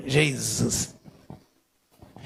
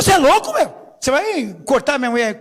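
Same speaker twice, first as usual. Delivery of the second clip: retold outburst; 3 semitones higher than usual.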